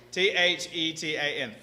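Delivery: T H E T A N spelled letter by letter; spelled out slowly. Shown as a demonstration. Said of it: "spelling it out".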